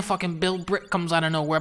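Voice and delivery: ordinary delivery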